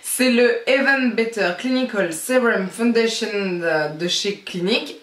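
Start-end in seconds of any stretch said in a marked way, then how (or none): 0.7-3.3 product name in a French speaker's English accent; self-mocked English accent. Real, not acted. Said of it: "avec mon superbe accent anglais".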